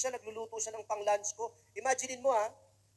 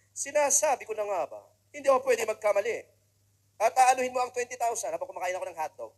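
mock scolding; 5 dB louder than usual. Mother asked for money, son scolds.

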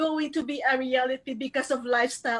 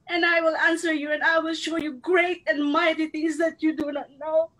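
tearful scripture; 2 semitones higher than usual. Real, not acted. Emotional scripture quote, near tears.

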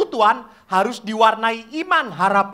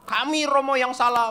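higher chorus-like answer; imitated children's reply; 5 semitones higher than usual. Children admit fault to priest, raised imitated reply. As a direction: own up like obedient pupils.

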